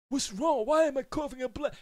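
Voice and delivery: high, pleading mock panic; mock panicked eater. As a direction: act out the choking cereal eater. Acting the choking cereal eater.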